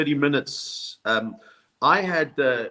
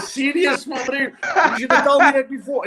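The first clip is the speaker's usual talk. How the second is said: put-on much higher, laughing South African accent; 12 semitones higher, 4 dB louder than usual. Comic confessing to the agent, laughing South African accent. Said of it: "very good South African accent".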